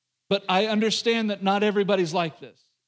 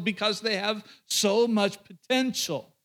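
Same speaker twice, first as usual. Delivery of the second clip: slow sincere; 3 semitones higher, slower than usual. Retold or imitated. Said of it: "and I say to her".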